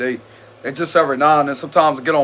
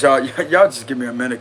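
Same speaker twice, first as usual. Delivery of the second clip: giggling; 4 semitones lower, faster than usual. Real, not acted. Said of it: "so I can let that giggly energy go away".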